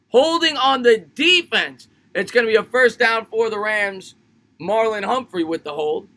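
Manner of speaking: football announcer calling a penalty; sports broadcast call; live play-by-play. Acted. Calls the game live.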